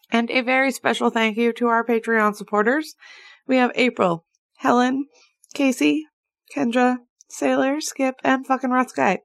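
high chipmunk-like voice. Real, not acted. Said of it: "I feel like a chipmunk".

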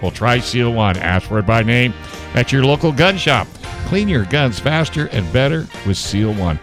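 bright live ad read; chipper 1950s ad. Acted. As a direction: sell it like an old ad. Ad read, earlier reader guess.

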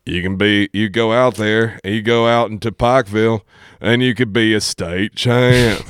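lightly imitated coach pep talk, stretched at the end; Coach Moore. Coach pushing him toward Pikeville, light impression. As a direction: give a mock pep talk, dragging out the final words. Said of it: "that's what he always said".

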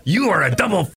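high, drawn-out mock revelation; sudden realization, imitated. Storyteller voices the robber's dawning insult, mock realization. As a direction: announce it like a discovery, playfully. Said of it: "it was like it dawned on him".

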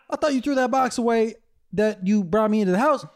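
high, loud dog voice through laughter; high-pitched comic dog protest; puzzled dog. Acted. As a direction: voice a betrayed pup, half laughing.

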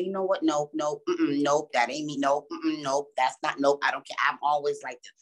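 low, mildly stubborn refusal; lightly mocked closed-minded brush-off; dismissive. Acts out someone closed-minded.

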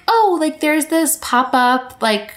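high, eager mock invite; mock eager newcomer. Friend mocking a newcomer's eager plans, high mock-excited voice.

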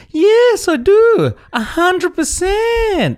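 high, loud, exaggerated sarcastic yes; drawn-out, high-pitched mock enthusiasm. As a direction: overdo the enthusiasm so it sounds insincere. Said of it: "I was answering sarcastically".

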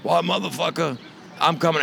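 high, sharp mock-angry mom on the phone; angry mother. Mother threatening her truant son on the phone, mock angry. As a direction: play the furious little Irish mother.

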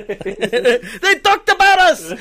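loud, high, drawn out with delight; thrilled laughing cry. Real, not acted. Co-host thrilled that listeners talked about them, loud and laughing. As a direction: laugh it out, overjoyed.

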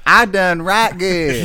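slow, high, loud mock yokel; hick voice. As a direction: ham up a slow country bumpkin. Jokey hick talk after teasing.

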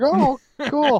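very high excited oh cool; mock amazed. Speaker reacting to the parrot, very high mock amazement. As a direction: gush like a kid. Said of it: "I was like".

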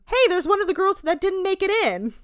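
a catty housemate sneering at a newcomer; mock catty voice. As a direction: toss the line off like a mean girl. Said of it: "She says".

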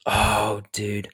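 hammed-up Australian accent breaking into laughter; poor Australian accent. Shown as a demonstration. Friend showing off his love of Australian accents, poor Aussie accent. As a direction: attempt a bad Aussie accent, amused. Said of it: "That was my poor attempt".

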